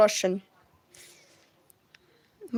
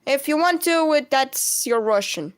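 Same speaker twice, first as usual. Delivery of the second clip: English with Russian sounds; Russian accent. Shown as a demonstration. Streamer answering a viewer's wish for Russian, Russian accent. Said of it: "I'm back to my regular voice".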